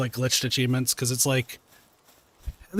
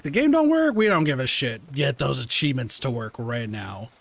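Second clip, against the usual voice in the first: demanding gamer; slower than usual. Retold or imitated. Voicing demanding achievement hunters.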